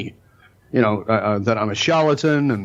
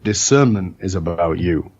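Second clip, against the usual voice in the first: put-on Indian accent; 5 semitones lower, slower than usual. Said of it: "That's why I do the accent".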